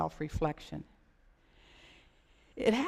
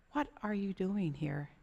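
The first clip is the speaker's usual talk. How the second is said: quiet voice of God; 6 dB quieter than usual. Acted. God's question in the silence.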